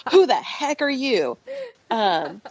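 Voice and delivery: a hint of a cross little kid; mock cranky toddler. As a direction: tease the baby's grumpy protest. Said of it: "And she's like".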